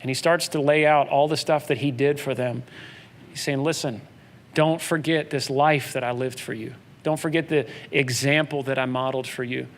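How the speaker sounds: soft, low and tender; Paul's gentle farewell to church leaders; emotional farewell. Retold or imitated. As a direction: quietly urge friends not to forget. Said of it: "a really emotional moment".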